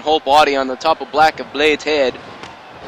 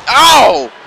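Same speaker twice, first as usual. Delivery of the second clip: surprised; 9 semitones higher, 8 dB louder than usual. Real, not acted. Commentator reacts to sudden trip.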